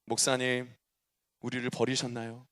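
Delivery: a hint of a hurt elder deaconess; mock pleading deaconess. Deaconess to pastor, lightly voiced plaintive complaint. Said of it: "우리 어느 권사님이 보냈어".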